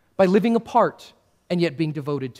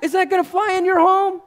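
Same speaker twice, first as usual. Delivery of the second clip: higher, louder challenge; incredulous shout; 12 semitones higher, 5 dB louder than usual. Real, not acted. Preacher challenging the congregation, incredulous shout. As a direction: call out to the room in disbelief.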